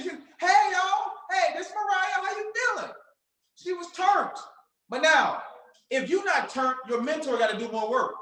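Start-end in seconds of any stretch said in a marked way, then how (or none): 0.4-2.9 higher, bubbly greeting; bright energetic greeting. Retold or imitated. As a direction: greet them with big energy. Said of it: "she had that energy".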